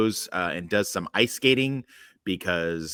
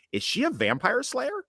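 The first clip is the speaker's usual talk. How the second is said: imitating ex-wife. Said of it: "my ex-wife going".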